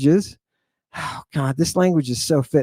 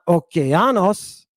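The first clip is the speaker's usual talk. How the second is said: "okeanos" stressed on the third syllable, A; wrong-syllable stress; slower than usual. Shown as a demonstration. Teacher showing what it's not, stress on third syllable. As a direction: hit the A in "okeanos". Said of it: "and it's not".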